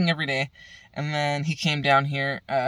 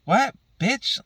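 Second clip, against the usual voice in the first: incredulous; 9 semitones higher, 4 dB louder than usual. Real, not acted. Outraged reaction to the call.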